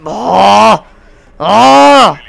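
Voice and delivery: loud, high oh of dismay; loud frustrated groan. Real, not acted. Player groaning loudly after being killed mid-streak. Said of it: "No es normal lo que estoy gritando".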